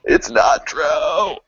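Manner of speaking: high wailing no, drawn out slowly; mock anguished cry. Horrified denial about blue milk.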